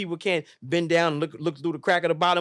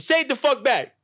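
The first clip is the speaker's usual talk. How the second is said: mock demand; 8 semitones higher, 5 dB louder than usual. Demanding love back.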